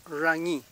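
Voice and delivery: RAÑÍ with untrilled Mapuche r; correct Mapuche r. Shown as a demonstration. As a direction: model RAÑÍ without rolling the r. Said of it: "No es".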